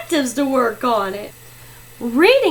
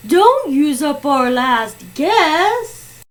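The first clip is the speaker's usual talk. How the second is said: urgent protest; 3 semitones higher, 5 dB louder, much slower than usual. Acted. Players stop player two's last guess.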